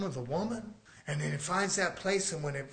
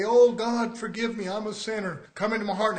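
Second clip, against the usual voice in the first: mock altar prayer; 3 semitones higher than usual. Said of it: "go down into the altars and say".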